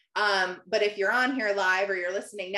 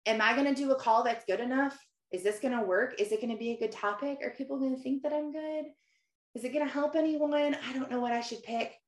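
softened, mildly fretful string of questions; retold self-doubt. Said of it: "I'm like".

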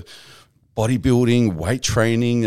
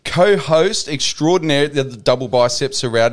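lively, higher-pitched ring-announcer welcome; podcast host intro; 3 semitones higher, 3 dB louder than usual. Real, not acted. Host welcomes listeners and introduces his co-host, showman style. Host's show opening.

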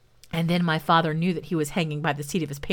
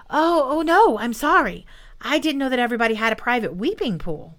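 higher, flustered apology; mildly panicked, pitched up; alarmed apology; 5 semitones higher than usual. Acted. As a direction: blurt out a worried sorry. Startled apology to angry beast.

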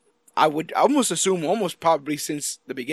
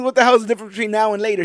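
fast, louder mock retort; angry demand; 4 semitones higher, 4 dB louder, much faster than usual. Host voices Willoughby challenging Niles, fast and louder. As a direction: rattle off the challenge, half-acted. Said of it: "And he goes".

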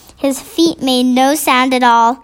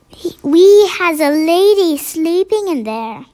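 higher, hushed giant voice; gentle giant voice; 4 semitones higher than usual. A narrator's reading. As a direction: whisper the news like a kind giant. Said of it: "he whispered".

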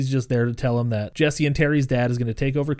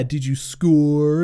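drawn-out teasing question; mock taunt; 2 semitones higher, much slower than usual. Classmate teasing boy about forfeit, slow mock taunt. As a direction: stretch the jab out slowly. Kid taunting teammate, acted.

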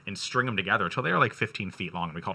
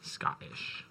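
whispered; 10 dB quieter, much slower than usual. Real, not acted. Muttering the answer.

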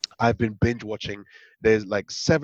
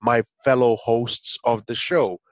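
raspy voice; 4 dB louder than usual. Pretend. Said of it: "with a very raspy voice saying".

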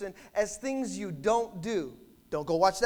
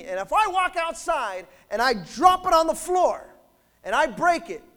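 loud, higher-pitched preacher's build; forceful preaching; 6 semitones higher, 7 dB louder than usual. Real, not acted. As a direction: drive each phrase out to the congregation.

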